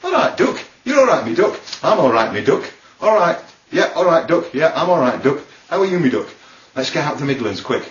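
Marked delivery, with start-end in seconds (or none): 0.0-6.3 bouncy Derby greetings traded back and forth; Derby accent. Acted. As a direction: swap hellos as two Derby men. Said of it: "In Derby, men call men duck".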